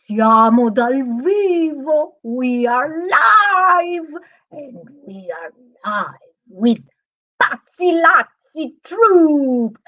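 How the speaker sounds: drawn-out, theatrical announcer delivery; show-opening announcer. Acted. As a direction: open the show with big, stretched-out words. Opens live show as masked host.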